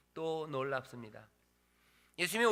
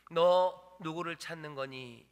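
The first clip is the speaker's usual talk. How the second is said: slow, louder, lingering on 너; tender question; 6 dB louder, slower than usual. Acted. Jesus asking the mourning woman whom she seeks, slow and tender. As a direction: ask it gently and deliberately. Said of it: "라고 말씀하십니다".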